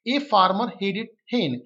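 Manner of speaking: drawn-out word by word reading; slow dictation reading. Shown as a demonstration. Teacher dictating the example sentence slowly. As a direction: read it slowly for the class. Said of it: "teacher reads the example sentence".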